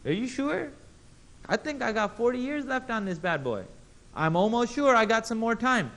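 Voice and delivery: pleading Adam. Acted.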